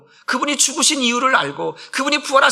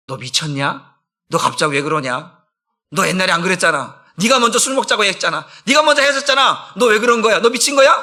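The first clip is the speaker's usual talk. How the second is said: acted friend growing more indignant; building incredulity; 2 semitones lower than usual. Old friends challenge the changed man. (낮게 따지기 시작해 점점 언성이 높아지는 친구)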